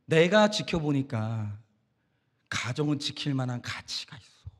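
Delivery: imitating a mentor, low, soft and slow; mentor's counsel. Mentor counselling a troubled family to stay together, quietly measured. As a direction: gently weigh each word like an older adviser. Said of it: "그리고 하는 말이 뭐냐?".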